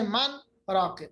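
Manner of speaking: من راقن with the n sounded clearly; clear nun, man raaqin. Shown as a demonstration. Teacher shows the exception, من راقن with a clear n. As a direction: read من راقن, n pronounced plainly before the r. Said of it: "مگر پڑھا جاتا ہے".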